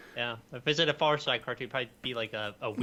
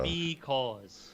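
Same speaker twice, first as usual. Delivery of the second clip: drawn-out punchline, level; stretched pun word; dad joke punchline. Acted. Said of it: "That's why the bee crossed the road".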